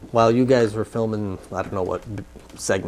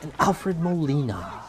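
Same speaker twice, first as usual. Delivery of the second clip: measured presenter's read with punched key words; film synopsis read; 3 semitones higher than usual. Acted. Host summing up Monsters University for viewers, presenter read. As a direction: read it out like a movie preview, pausing between phrases.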